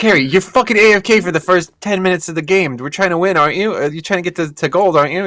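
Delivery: high squeaky laughing scold; giggly high-pitched telling-off of the AFK friend; laughing rant. Retold or imitated. Yelling at friend while laughing.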